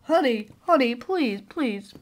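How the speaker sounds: low, hushed pleading; gentle pleading. Acted. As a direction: plead softly to calm a partner. Partner pleads with woman in labour.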